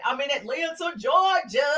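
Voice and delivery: proud Southern US accent. Real, not acted. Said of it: "can you hear that Southern accent".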